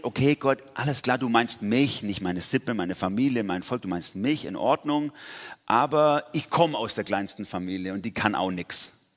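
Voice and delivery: mock compliance turning to objection; concede, then wriggle out of it; lightly acted protesting excuse; reluctant Gideon. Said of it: "Gideon hat, hat kapiert".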